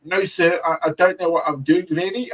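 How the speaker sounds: lightly voiced high-pitched innocent act; playing innocent. Visitor answering an American stop, playing innocent. Acting out reply to questioning.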